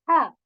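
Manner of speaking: "हा" said as a throaty Arabic ḥa; heavy ḥa demo. Shown as a demonstration. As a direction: breathe "हा" from the throat, not the plain h. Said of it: "हा is actually this". (गले से भारी "हा")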